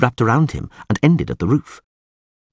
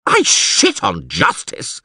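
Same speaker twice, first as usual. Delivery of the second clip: mild yell; much slower than usual. Acted. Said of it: "yelled the mayor".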